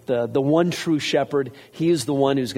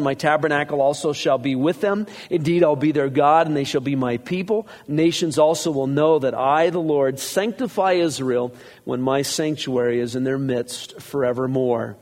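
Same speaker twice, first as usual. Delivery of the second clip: raised, steady reading of scripture. Acted. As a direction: read it out to the congregation. Reads scripture aloud.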